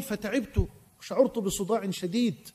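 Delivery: soft, low and drained; quiet exhausted retelling; tired. Retold or imitated. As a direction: let the fatigue sink the voice. Weary man tells of headache.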